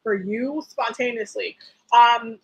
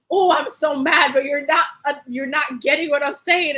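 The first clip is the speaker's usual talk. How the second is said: frustrated movie quote; 2 semitones higher, 5 dB louder than usual. Retold or imitated. Acted movie character, near tears.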